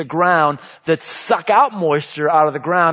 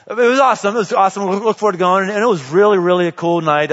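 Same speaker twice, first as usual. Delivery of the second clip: excited recall; 3 semitones higher, 4 dB louder, faster than usual. Real, not acted. Excited recall of wine night.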